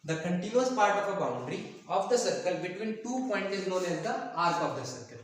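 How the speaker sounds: slow, measured definition for note-taking; dictation. Real, not acted. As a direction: read it out slowly, phrase by phrase. (धीरे-धीरे परिभाषा लिखवाते हुए)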